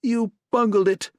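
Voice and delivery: high, loud furious scream; furious partner screaming blame. A narrator's reading. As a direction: scream it at him. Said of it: "he screamed at Gutman".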